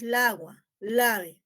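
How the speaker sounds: la agua said lightly joined; mild blend of la and agua; la agua, la ave. Shown as a demonstration. Teacher repeating the cacophony example to her class. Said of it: "Lo que hacemos es".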